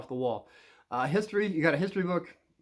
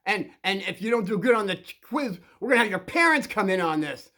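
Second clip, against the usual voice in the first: raised, emphatic mock scolding; staged teacher yelling; 3 semitones higher, 4 dB louder than usual. Teacher pretends to yell at the kid over history, mock scolding. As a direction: scold hard, as a put-on show for onlookers. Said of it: "You're gonna yell at me".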